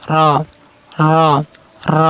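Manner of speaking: rounded, heavy র; slightly heavy letter. Shown as a demonstration. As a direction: say র thick and full with a short roll. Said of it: "একটু মোটা করবেন".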